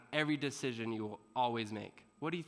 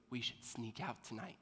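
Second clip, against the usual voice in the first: softer, sneaky suggestion; conspiratorial hush; 3 semitones lower, 9 dB quieter than usual. Retold or imitated. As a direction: say it low like a secret plan. Friend proposes sneaking out.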